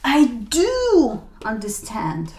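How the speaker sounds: "do" whispered slowly; whispered insistence. Shown as a demonstration. Speaker whispering to someone who doubts them. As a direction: whisper it, still leaning on "do". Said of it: "and you say".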